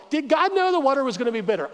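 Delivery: quick, high-pitched wondering; acted puzzled reader; puzzled questioning. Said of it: "as I'm reading the Bible".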